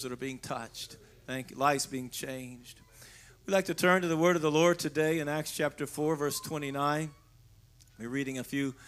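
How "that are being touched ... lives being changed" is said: soft breathy whisper. Real, not acted. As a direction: murmur it under the breath. Quiet aside during worship.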